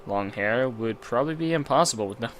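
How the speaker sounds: measured, low-key reading aloud; story narration. Acted. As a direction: narrate it as an inner monologue. Reads visual novel narration.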